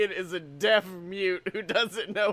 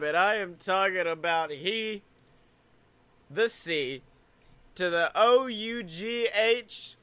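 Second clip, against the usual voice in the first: ringmaster; 2 semitones higher than usual. Pretend. Continues the circus introduction.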